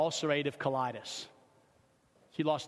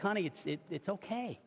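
softly soothing, acted; hushed, halting comfort; retold reassurance; 4 semitones higher, 5 dB quieter than usual. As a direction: gently console an apologizing wife, in a retelling. Husband consoling apologizing wife.

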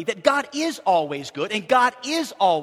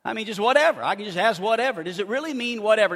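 reading in disbelief; faster than usual. Acted. Questions the promise with doubt.

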